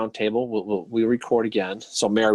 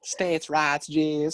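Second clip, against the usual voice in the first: whispered; 6 semitones higher, much slower than usual. Acted. Whispered callback of catchphrase.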